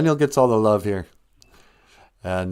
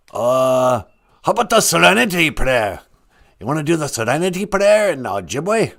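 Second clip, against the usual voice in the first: much higher put-on puppet voice; Papa Wagosh voice; 3 semitones higher, 3 dB louder than usual. Papa Wagosh asking the host about the prayer, high put-on voice. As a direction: ask it as the excited puppet.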